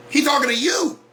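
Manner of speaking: shout. Real, not acted. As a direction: drive it home to the listeners.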